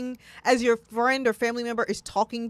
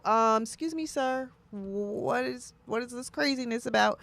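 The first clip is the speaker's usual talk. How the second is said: mock-formal challenge; 3 semitones higher, 6 dB quieter than usual. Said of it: "where I can go".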